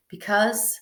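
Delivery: a hushed confession; whispered. Acted. Master confesses his fear.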